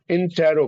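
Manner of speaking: इंटेरो with a full "te" syllable before "ro"; इंटेरो, not squeezed into "intro"; correct pronunciation. Shown as a demonstration. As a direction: say इंटेरो as in-TE-ro, keeping the middle vowel. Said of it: "कई लोग इंट्रोगेटिव बोल देते हैं".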